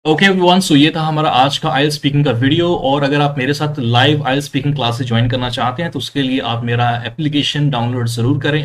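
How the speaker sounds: loud, upbeat sign-off to viewers; energetic YouTube teacher outro; video outro. Acted. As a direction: wrap up the lesson like a host.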